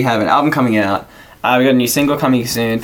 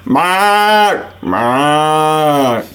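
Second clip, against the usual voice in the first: calling out; 2 semitones higher than usual. Pretend. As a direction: call his name across the line. Calling out on prank call.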